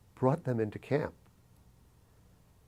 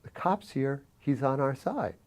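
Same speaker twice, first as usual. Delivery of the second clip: higher, pressing plea to calm him; urgent pleading; 8 semitones higher, 4 dB louder than usual. Retold or imitated. Teen urges the armed manager to put the gun away, pleading. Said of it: "And I remember saying".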